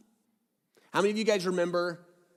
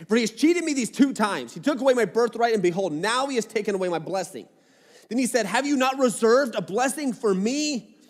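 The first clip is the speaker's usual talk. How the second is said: raised, higher-pitched Bible reading; scripture reading; 3 semitones higher, 3 dB louder than usual. Acted. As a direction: read the passage out clearly to the room. Reads scripture aloud to the congregation.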